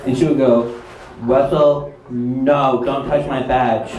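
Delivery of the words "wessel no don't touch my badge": slow imitation with blurred consonants in "badge"; deaf teacher's speech. Deaf teacher protesting to student, "badge" in imitated blurred speech. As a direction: say "don't touch my badge" slow and low, sounds misshaped. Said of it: "That's how she talks".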